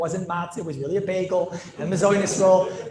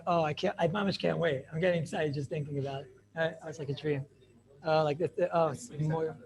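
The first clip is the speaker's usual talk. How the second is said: hushed, half-hammed contentment; dreamy bliss; 2 semitones lower, 6 dB quieter than usual. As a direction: melt into mock bliss, quietly. Acts blissful reclining at the Seder.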